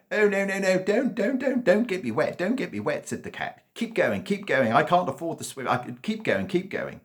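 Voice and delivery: very high, loud shrieking panic; panicked cat. A narrator's reading. Cat on the dog's back begging not to get wet, shrieking high. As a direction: shriek don't in terror.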